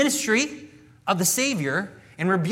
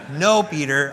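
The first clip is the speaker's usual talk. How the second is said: amused, laughing rebuke; Jesus gently laughing at Peter; 2 semitones lower, 6 dB louder, slower than usual. Retold or imitated. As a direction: chuckle the name as you correct him. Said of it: "I imagine Jesus going".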